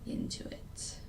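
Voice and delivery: hiccuping between words; hiccups. Real, not acted. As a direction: talk through the hiccups. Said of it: "Excuse me, I have the hiccups".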